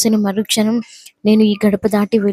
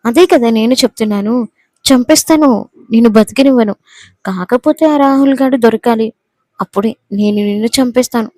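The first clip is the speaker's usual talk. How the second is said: menacing threat. Acted. Jai threatens Vennela.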